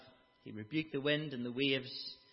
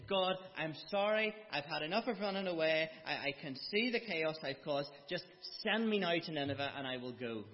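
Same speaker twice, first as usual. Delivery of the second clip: higher, louder pretend plea; pleading repentance; 4 semitones higher, 3 dB louder than usual. Imagined Jonah repenting to God, pleading. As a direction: beg God's pardon earnestly.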